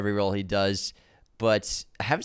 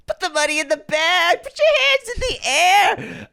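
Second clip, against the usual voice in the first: high, loud robber holdup yell; bank robber; 6 dB louder than usual. Retold or imitated. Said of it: "hear them say it again".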